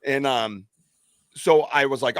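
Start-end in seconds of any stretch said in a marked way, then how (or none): none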